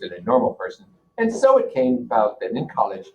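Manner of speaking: steady read-aloud voice for the class; reading a novel aloud. Acted. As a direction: read the passage out to students, measured and clear. Teacher reads novel aloud to class.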